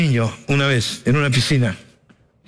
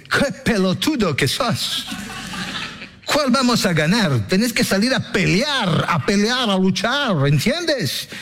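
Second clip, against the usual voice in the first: gruff coach; 5 semitones higher, slower than usual. Retold or imitated. Coach Booby scolds him.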